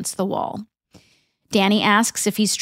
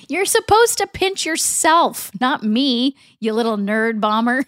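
mild mock anger. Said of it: "D J is angry".

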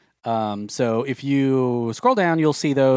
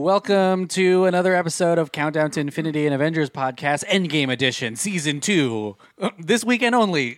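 car ad announcer; 4 semitones higher than usual. Pretend. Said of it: "like we're doing a car ad".

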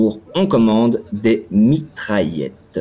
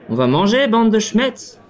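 higher, rowdy drunk yell in a put-on voice; drunk shout; 10 semitones higher than usual. Drunk Arnaud calling his friends to go eat, mock drunken yell. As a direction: play the tipsy Frenchman bellowing at the bar. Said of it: "Il crie".

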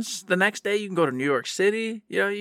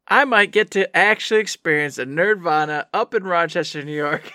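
shouting through laughter; laughing shout. Real, not acted. Podcaster laughing as he shouts his Nerdvana news.

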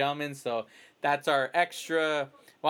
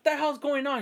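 much higher, bewildered retelling; retold confusion; 10 semitones higher than usual. Kid keeps insisting he's the Green Ranger, bewildered. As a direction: still can't believe it. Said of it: "I was like".

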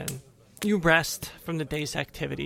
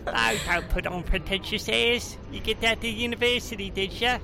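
pixie; 4 semitones higher than usual. Acted. Gnome cousin teases Winley.

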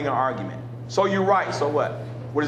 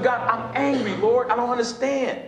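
retold grieving prayer; 4 semitones higher than usual. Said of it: "I said".

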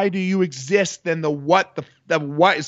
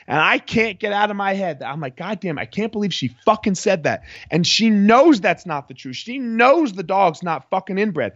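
retold indignation, pitched higher; livid; 5 semitones higher than usual. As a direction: replay your exasperated inner rant. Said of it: "And I am just livid".

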